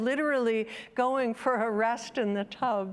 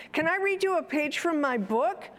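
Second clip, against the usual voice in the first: put-on child's request; 7 semitones higher, 4 dB louder, faster than usual. Child asks mother in story.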